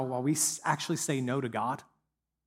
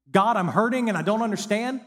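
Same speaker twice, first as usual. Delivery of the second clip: pleading prayer; 7 semitones higher, 6 dB louder than usual. Pretend. Voicing a hurting believer's prayer.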